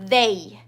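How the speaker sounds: they with a buzzed opening TH; they, tongue between teeth, humming into the vowel; voiced TH. Shown as a demonstration. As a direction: vibrate the throat on the TH of "they".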